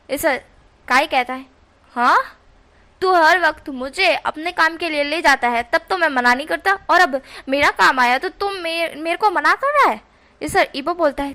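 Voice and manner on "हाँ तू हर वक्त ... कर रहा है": louder, higher, aggrieved protest; indignant complaint. Acted. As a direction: throw it back at your friend. Kai argues Ibo won't help.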